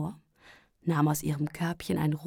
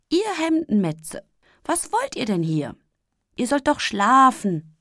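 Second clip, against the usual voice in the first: higher, louder amused scolding; chuckling scold; 6 semitones higher, 5 dB louder than usual. A narrator's reading. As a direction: scold them with a grin. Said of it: "schmunzelte er".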